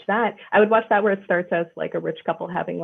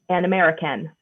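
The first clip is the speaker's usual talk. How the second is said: stilted standard American, slightly mocking; lightly parodied RADA-trained American accent; drama-school American accent; 2 semitones lower than usual. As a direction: imitate a British actor's careful American. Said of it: "their standard American from rada".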